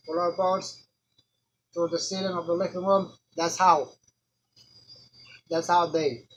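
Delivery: put-on furious friend confronting the dead boy; angry accusation. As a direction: hammer him with every why.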